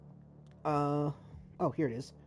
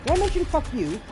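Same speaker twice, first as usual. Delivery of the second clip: 1 sing-song mock question; 9 semitones higher than usual. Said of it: "the thing I say the most".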